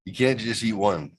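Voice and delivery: lightly voiced snack tagline; a touch of announcer; mock ad slogan. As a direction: say it like a commercial tag. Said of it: "another commercial tag".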